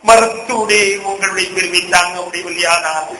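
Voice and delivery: climbing sermon lament for the lost Prophet; weeping lament. Retold or imitated. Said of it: "என்று நான் அழுகிறார்".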